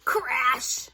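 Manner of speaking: put-on animated storybook reading for children; story narration. A narrator's reading. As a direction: read it aloud to children, savoring key words.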